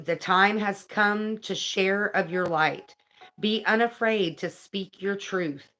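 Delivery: measured, earnest reading aloud; card reading. Acted. Reading an angel card's message to viewers, earnest read-aloud.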